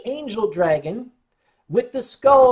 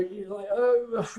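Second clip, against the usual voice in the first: laughing through it; 7 dB quieter, much slower than usual. Real, not acted. Laughing while retelling the story.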